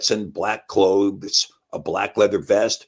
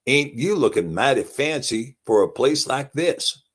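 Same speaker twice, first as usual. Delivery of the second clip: put-on Texas accent; 4 semitones higher than usual. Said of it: "he put on a little Tex accent".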